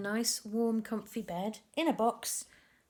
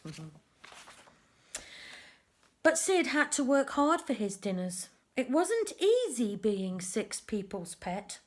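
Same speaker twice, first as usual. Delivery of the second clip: lively storybook narration for little ones; reading to children. A narrator's reading. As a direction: tell the tale to a group of kids. Reads picture book to children.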